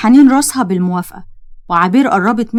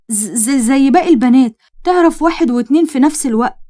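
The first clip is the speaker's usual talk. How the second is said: nervous stutter, tripping over the words; a mildly acted frightened babble of excuses; stammering in fear; 3 semitones higher than usual. Karim to angry Farid, stammering in fear. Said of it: "كريم رد عليه بخوف".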